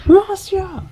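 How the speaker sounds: high, loud war cry; battle cry. Retold or imitated. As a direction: yell it like a charging hero. Echoing the game battle cry.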